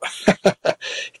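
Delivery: short, soft mocking laugh; quiet retold chuckle; imitated laugh. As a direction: imitate someone laughing at a name. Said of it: "así como te estás riendo, me dijo".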